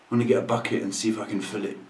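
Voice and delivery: laughing fast. Real, not acted. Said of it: "I actually wanna sob".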